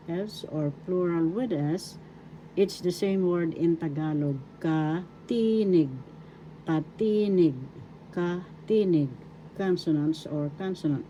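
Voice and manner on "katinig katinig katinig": katinig with a drawn-out "ti", falling at the end; careful teaching repeats of katinig, ka-TEE-nig; stress on second syllable. Shown as a demonstration. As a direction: lean long on the TI in katinig. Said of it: "The accent is in the second syllable".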